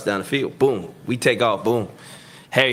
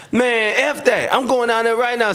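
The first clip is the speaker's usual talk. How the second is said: heated shout; 10 semitones higher than usual. Retold or imitated. Heated sideline argument with teammate.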